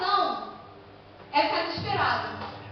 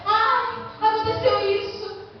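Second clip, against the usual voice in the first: slow, higher, whiny poor-me sighing; mock self-pity; 4 semitones higher, much slower than usual. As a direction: play the pitiful victim, dragging the words. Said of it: "dando mais coitadinho".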